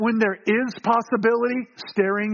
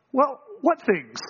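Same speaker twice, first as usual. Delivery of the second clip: slow, higher, feigned-innocent question; eye-rolling; 4 semitones higher, slower than usual. Acted. Jesus answers the travelers, rolling his eyes in feigned innocence. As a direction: play dumb with a knowing eye-roll. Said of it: "his eyes just kind of rolling".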